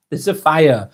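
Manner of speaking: amused chuckle on the words; laughing in disbelief. Real, not acted.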